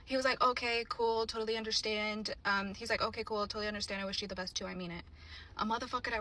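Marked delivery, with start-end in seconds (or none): 0.4-2.3 mild, easygoing agreement; calm response. Retold or imitated. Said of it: "he responded so calmly". 3.0-5.0 soft, low, unbothered acceptance; imitating his easy calm; calm response. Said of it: "he responded so calmly".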